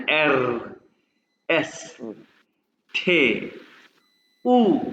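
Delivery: letters called one by one with pauses; careful German letter names; alphabet recital. Shown as a demonstration. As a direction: spell out the German alphabet slowly. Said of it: "मैं आपके सामने दो दफा pronounce करूंगा".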